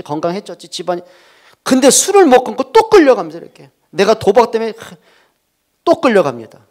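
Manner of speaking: 높고 크게 천천히 외치는 설교; 강단에서 목청 높여 선포하기. Acted. 설교 최고조. (회중에게 열정적으로 선포하는 목사)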